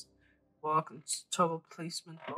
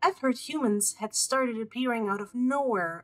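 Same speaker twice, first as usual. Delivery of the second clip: lightly voiced eager scholar girl, higher; bright excited researcher voice, a bit higher; eager young scholar; 6 semitones higher, 3 dB louder than usual. Rereads Gina's line.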